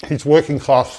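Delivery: talking through a muffin; words round a bite of food; mouth full. Real, not acted. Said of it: "Sorry, I'm eating a muffin".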